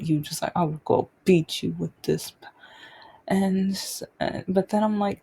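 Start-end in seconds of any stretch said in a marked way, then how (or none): 0.6-2.5 lightly imitated maternal threat; threatening mother. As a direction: voice a mother's warning without full force. Retold mother threatening her child.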